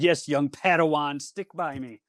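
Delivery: grand mentor voice; a touch of mock wisdom; mock Jedi master. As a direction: play the wise Jedi to the pastor. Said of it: "I said".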